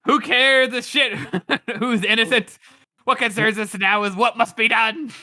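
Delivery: high, loud imitation broken by laughter; laughing mock rant. Friend imitating the Arch Lector's rant, laughing. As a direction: ham up the villain through giggles. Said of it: "he's all like".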